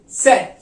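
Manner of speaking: सेट said crisp; German tset. Shown as a demonstration. Teacher modelling German Z as सेट. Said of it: "इसको हम pronounce करते हैं सेट".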